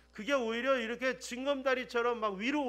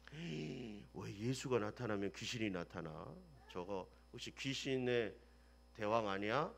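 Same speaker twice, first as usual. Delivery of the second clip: crowd whisper; 12 semitones lower, 9 dB quieter than usual. Retold or imitated. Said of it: "사람들이 그게 불렀어요".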